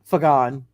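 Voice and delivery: Fagan said as fuh-GAHN; corrected pronunciation. Acted. Hero correcting himself, Fagan as fuh-GAHN. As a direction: put the stress late in Fagan, fuh-GAHN.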